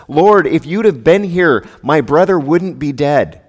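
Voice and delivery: accusing cry of a grieving sister; grieving reproach. Retold or imitated. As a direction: throw the loss back at him. Martha voiced, grieving accusation.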